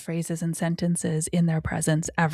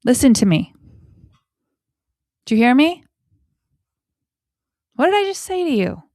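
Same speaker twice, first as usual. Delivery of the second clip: louder stern demand, last line high and fast; scolding parent; 4 semitones higher, 4 dB louder, faster than usual. Shown as a demonstration. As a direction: play the fed-up parent who is not being heard. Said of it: "What do we often tend to say?".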